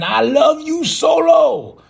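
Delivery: high, lightly sing-song "I love you"; mock tender reply. The speaker answering Solo, lightly mocking high reply.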